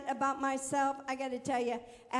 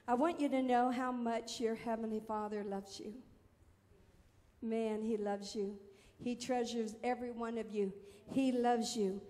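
tender assurance; 3 semitones lower, 3 dB quieter than usual. Real, not acted. Tender assurance of God's love.

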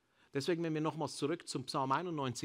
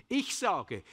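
1 loud declaration; 6 semitones higher, 6 dB louder than usual. Shown as a demonstration.

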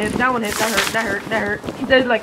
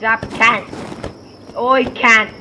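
mock Australian accent; slower than usual. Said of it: "Why can't Corbin speak like this? He's part Australian".

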